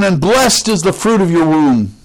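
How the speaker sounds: imitated cry, lightly projected. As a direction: keep proclaiming, pitch lifted, easing down at the end. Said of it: "cries out with a loud voice".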